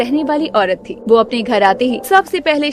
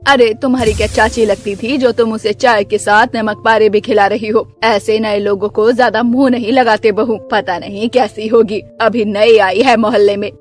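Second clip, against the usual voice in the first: low, grumbling mother-in-law voice; lower, disapproving saas; scolding mother-in-law; 5 semitones lower than usual. Acted. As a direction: tell off the daughter-in-law, low and stern.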